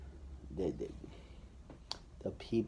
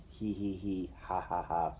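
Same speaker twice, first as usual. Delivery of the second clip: mock giggle. Peer kids egging, mock giggle.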